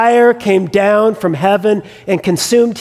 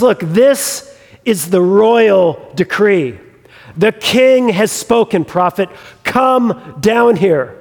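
slow, insistent royal order; imitated captain pressing his authority, word by word; mock escalated command; slower than usual. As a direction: spell out the decree with drawn-out weight. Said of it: "he ratchets it up a notch".

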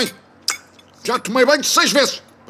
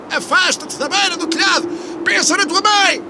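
escalating comedy rant. Acted. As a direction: bellow absurd offers upward. Absurd pleading shouts. (discurso cómico em crescendo)

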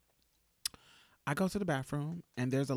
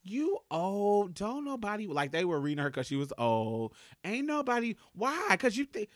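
angry read; 5 semitones higher than usual. Retold or imitated. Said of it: "reading the brakes off this bitch".

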